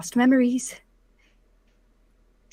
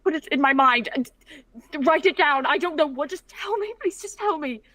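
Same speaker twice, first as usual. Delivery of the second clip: higher, louder frantic begging; desperate pleading; 4 semitones higher, 5 dB louder than usual. Acted. Daughter begging her father to tell her. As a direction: beg urgently, rising.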